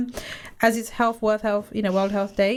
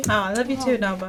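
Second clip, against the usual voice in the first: real, tearful laugh creeping in; moved, on the edge of happy tears; love you back, choked with feeling; getting emotional. Real, not acted. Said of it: "You're getting emotional".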